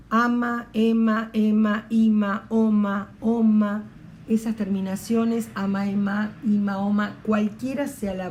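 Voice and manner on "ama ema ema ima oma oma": ama, ema, ima, oma each said loud and separate; emphasized endings. Shown as a demonstration. Teacher stressing endings to class, louder. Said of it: "fíjense".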